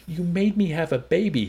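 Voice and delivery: high, loud shriek; screamed. A narrator's reading. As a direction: scream it above an uproar. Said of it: "she screamed above the uproar".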